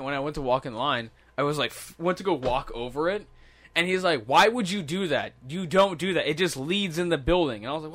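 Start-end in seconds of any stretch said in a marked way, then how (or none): 4.2-7.6 retold mild scolding. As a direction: lightly mimic an exasperated explanation. Man scolds him at the line.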